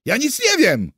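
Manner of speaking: high, loud panicked denial; frightened cry. A narrator's reading. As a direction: cry it out like a scared prisoner. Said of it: "krzyknął". (przestraszony, wysoki krzyk)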